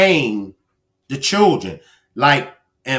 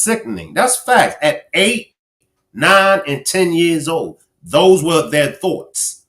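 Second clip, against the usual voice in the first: outraged emphasis; 3 semitones higher than usual. Real, not acted. Outraged at children's crime.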